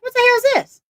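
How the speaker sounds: high, loud cry of disbelief; shocked outburst. Retold or imitated. Retelling shock at the hack attempt.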